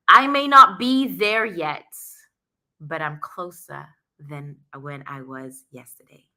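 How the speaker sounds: measured, deliberate quote reading. Shown as a demonstration. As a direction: read it out like an inspiring line. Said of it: "I'm gonna read it to you".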